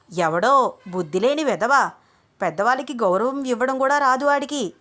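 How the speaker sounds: put-on loud, high, indignant old grandmother; angry granny. A narrator's reading. Grandmother complaining to Ganga about the caller, angry. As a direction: spit it out as an insulted old lady. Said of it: "కోపంగా".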